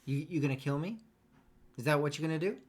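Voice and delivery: scornful hostage taunting her captor; defiant captive. Acted. DM plays the captive mocking the knife holder. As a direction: taunt the one holding the knife, steady.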